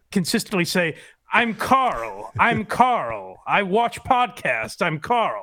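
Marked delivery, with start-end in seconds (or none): 1.3-5.4 a hint of a deadpan Carl impression; flat little intro, lightly voiced; imitating Carl. Friend mimics cohost repeating his name, lightly voiced. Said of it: "Chad did an impression of you".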